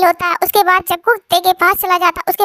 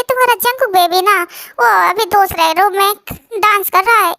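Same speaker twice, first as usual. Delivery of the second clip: mocking copy of Lisha. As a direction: tease her by aping her cutesy tone. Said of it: "तुम मेरी copy क्यों कर रही हो".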